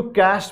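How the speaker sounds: "कैश" sounding just like "cash"; shown pronunciation. Shown as a demonstration. Teacher repeating how cache is read, "कैश" said like "cash". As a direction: say "कैश" in one syllable ending in sh. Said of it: "इसको कैश पढ़ते हैं".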